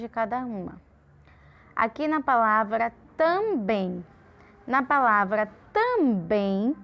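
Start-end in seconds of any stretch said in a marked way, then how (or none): 1.7-6.8 "também" drawn out with weight on "bem"; stress on bem. Shown as a demonstration. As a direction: say "também" slowly, leaning on final "bem". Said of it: "fala mais alto, com mais força".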